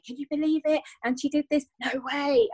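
high, incredulous gossip; mock disbelief. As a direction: raise it up in mock shock. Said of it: "we will share our stories and say".

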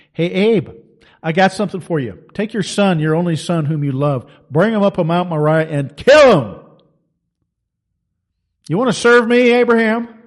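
building demand. Acted. God's demand to Abraham voiced.

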